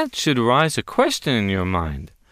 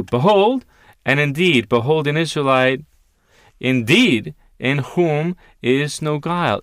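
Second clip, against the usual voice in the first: forceful proclamation; 3 semitones higher, 4 dB louder than usual. Acted. Preacher reading the verse to his listeners, loud proclamation.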